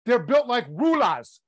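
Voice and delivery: slow imitation of a Boston accent; teasing Boston-accent mimicry; mock Boston accent. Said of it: "you weren't speaking English".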